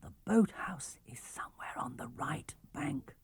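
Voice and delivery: soft unvoiced whisper; John whispering to the crew. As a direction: whisper so the enemy can't hear. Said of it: "whispered John".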